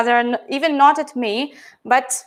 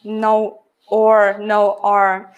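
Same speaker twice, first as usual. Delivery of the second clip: British non-rhotic; 3 semitones lower, much slower than usual. Shown as a demonstration. Teacher demonstrating pure British accent sounds. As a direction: say "no R" the British way, low. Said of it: "Pure British accent".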